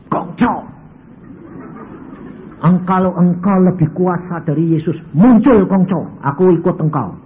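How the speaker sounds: loud, demanding call to the ancestor spirit; loud challenge. Retold or imitated. Man loudly dares his ancestor to show up.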